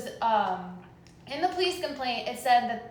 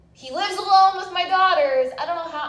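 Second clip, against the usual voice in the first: mother at her wit's end, high and loud; upset raised voice; 5 semitones higher, 8 dB louder than usual. Real, not acted. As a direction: voice jumps up, much louder and higher. Distressed mother arguing with officer.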